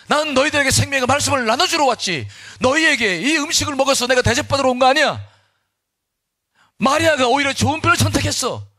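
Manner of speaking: high-pitched, forceful rebuke; acted authoritative proclamation; confident Jesus. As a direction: declare it firmly, driving each question home. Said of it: "당당하게 말씀하시는 겁니다".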